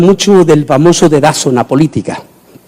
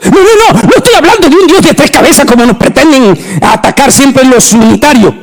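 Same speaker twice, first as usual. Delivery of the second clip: forceful rebuttal; 7 semitones higher than usual. Real, not acted.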